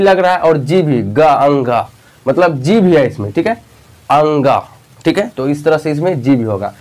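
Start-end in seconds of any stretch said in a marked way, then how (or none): 4.1-4.6 अंगा with the n and g both sounded; nasal ng demo. Shown as a demonstration. Teacher letting pupils hear n and g in ङ. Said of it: "इसका sound से ही आपको पता चल रहा है अंगा".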